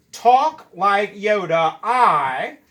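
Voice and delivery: slow Yoda reading, words spaced; gentle slow Yoda voice; mock Yoda order. Shown as a demonstration. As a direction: say it slowly like Yoda. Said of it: "move that to the end like this".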